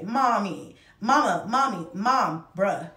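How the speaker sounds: mild mock kids calling mom. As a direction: call out mom like the kids do all day. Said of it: "I am called all of these things every day".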